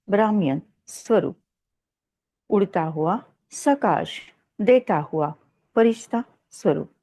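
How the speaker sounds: measured meditative affirmation, with pauses between phrases; guided meditation. Acted. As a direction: recite each soul affirmation deliberately, phrase by phrase. Leads a self-affirmation meditation before reading. (ठहर-ठहर कर ध्यान कराने का अंदाज़)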